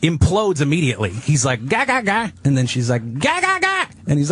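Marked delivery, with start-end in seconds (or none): 1.7-2.3 mock gibberish argument. Mimics Chinese argument as gibberish. 3.2-3.8 mock shrieky vendor lady. Mimics the vendor lady's reply.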